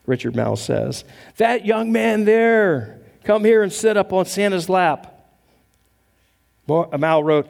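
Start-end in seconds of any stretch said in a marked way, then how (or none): 1.4-5.1 Santa voice. Retold or imitated. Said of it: "he pointed his finger at me".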